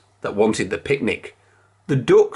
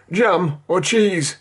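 Kipper; 6 semitones higher, slower than usual. A narrator's reading. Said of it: "said Kipper".

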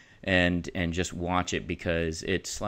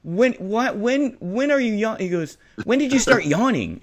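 Tony Stark; 11 semitones higher, 6 dB louder than usual. Retold or imitated. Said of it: "Tony Stark goes".

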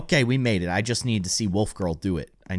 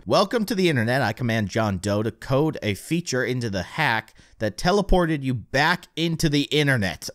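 lightly voiced gloating villain; mad scientist; 2 semitones higher than usual. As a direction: sneer it like a hacker villain. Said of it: "John Doe, he's quite the villain".

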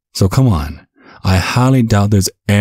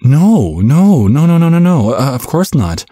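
emphatic denial; 8 semitones higher than usual. Acted. Father hurrying to reassure his son, high and insistent. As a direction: rush to reassure him, pitched way up.

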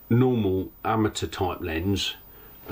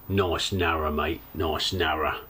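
lower-pitched East End Cockney quote; Cockney accent; 6 semitones lower than usual. Retold or imitated. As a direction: imitate a passing Cockney bloke. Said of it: "proper Cockney accent".

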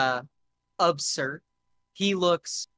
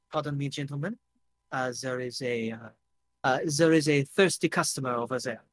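put-on understated French-accented courtesy; reserved bartender, touch of French accent; faster than usual. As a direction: excuse yourself politely in a light French accent. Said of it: "Pierre has French accent".

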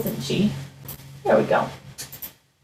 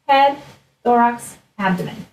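put-on broad singsong kids theatre. Shown as a demonstration. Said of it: "Those are the three parts of an insect".

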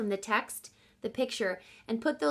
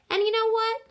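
high, louder eager question; playful tease; 12 semitones higher, 7 dB louder, faster than usual. Acted. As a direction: tease dad with a secret. Teasing setup.

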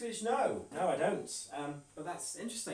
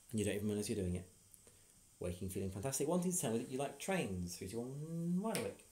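hypnotist voice; 4 semitones lower, 4 dB quieter than usual. Acted. Hypnotist giving suggestion.

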